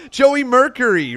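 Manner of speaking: name forced out high and loud through laughter; laughing. Real, not acted. Laughs at his own mix-up.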